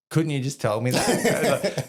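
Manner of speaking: high, loud, slow mock protest; laughing exasperation. Recruit asks corporal after being hit, laughing exasperated protest. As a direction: protest incredulously through a laugh.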